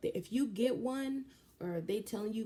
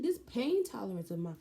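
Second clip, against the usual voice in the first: pained exclamation; 4 semitones higher, 4 dB louder than usual. Retold or imitated. Exclaiming over her pain.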